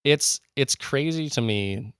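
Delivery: real enthusiasm, pitch jumping high at the start; eager, geeky enthusiasm; geeking out. Real, not acted. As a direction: gush like an excited history geek. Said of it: "You can probably hear the enthusiasm, the, the sheer geekery, geeking out in my voice".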